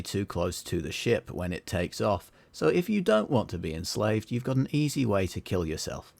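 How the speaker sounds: put-on Queensland accent announcer, a touch of. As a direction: read a PA message in a Queensland accent. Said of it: "which Australian accent do you want".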